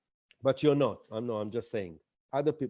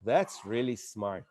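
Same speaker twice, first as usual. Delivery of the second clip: soft, slow, quietly impressed; an audience member won over, murmuring; 7 semitones lower, 5 dB quieter, slower than usual. Retold or imitated. Audience member won over by the pitch, soft and slow. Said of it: "maybe getting convinced".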